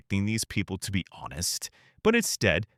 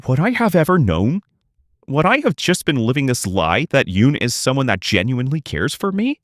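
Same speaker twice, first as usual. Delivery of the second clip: loud bitter questions; 2 semitones higher, 7 dB louder than usual. Real, not acted. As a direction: demand it in hurt anger. Angry rhetorical questions.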